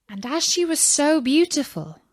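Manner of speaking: ordinary delivery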